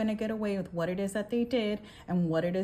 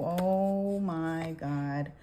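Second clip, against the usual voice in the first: stunned; 3 semitones lower, much slower than usual. Real, not acted. Astonished at the card drawn.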